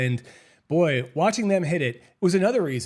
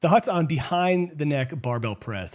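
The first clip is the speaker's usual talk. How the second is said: slower, deliberate read; careful retake. Shown as a demonstration. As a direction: read each word clearly and steadily. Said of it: "let me start that over".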